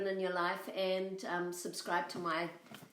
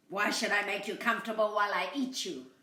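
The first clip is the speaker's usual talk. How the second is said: demanding coyote; 4 dB louder, faster than usual. Acted. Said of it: "demanded the coyote".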